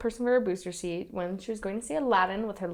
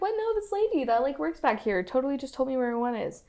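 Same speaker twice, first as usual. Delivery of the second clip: surprised; 4 semitones higher than usual. Retold or imitated. The woman voiced, surprised.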